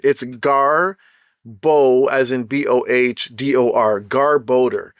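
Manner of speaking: Garbodor spelled out, said as GAR-bo-dor, stress on GAR; the speaker shows the right way to say Garbodor, sounding out Gar, Bo, then Garbodor slowly; careful pronunciation. Shown as a demonstration. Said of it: "I actually looked up how you pronounce it".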